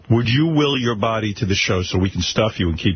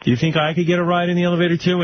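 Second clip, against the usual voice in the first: lightly voiced higher girl; girl asking a favor; 8 semitones higher than usual. Host imitating a girl asking Eric for a ride, lightly higher girl voice. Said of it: "maybe a girl would say".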